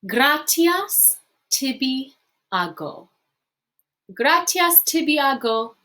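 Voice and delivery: gratias tibi ago said slowly, gratias stressed; slow model phrase. Shown as a demonstration. Teacher modelling gratias tibi ago for students. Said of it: "Or you can shorten this".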